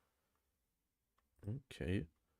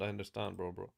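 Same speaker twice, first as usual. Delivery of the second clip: softer trailing repeat; 5 semitones lower, 9 dB quieter, faster than usual. Real, not acted. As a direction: drop to a soft murmur. Repeats phrase, fading quieter.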